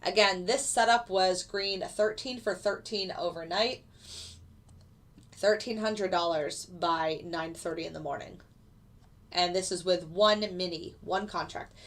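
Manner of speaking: blocked nose from a cold; talking through a stuffy nose. Real, not acted. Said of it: "Sorry I sound stuffy".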